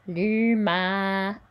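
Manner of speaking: "L'humanité" slow, the A and I not nasal; "L'humanité" with clear non-nasal vowels; non-nasal model. Shown as a demonstration. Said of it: "This is not nasal".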